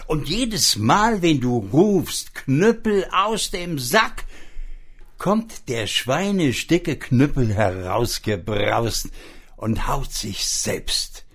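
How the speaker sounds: magic pig. Acted. Magic pig explains the club.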